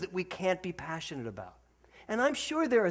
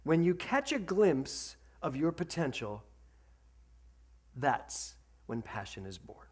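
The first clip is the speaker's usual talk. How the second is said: quoted saying. Acted. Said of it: "Zig Ziglar said this".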